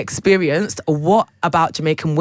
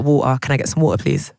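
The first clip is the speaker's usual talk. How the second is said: lower, haughty British "Can I get some water, please"; British with attitude; 4 semitones lower than usual. Shown as a demonstration. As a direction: order water like a snooty Brit. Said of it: "add a little bit of attitude".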